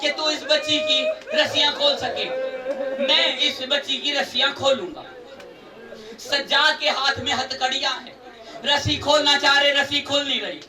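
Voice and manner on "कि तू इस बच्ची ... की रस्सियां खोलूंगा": angry. Acted. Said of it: "Sajjad ने गुस्से से कहा".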